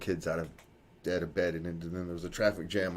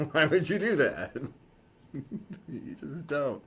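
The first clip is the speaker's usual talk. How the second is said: incredulous; 9 semitones higher, 6 dB louder than usual. Real, not acted. Repeats question with laughing disbelief.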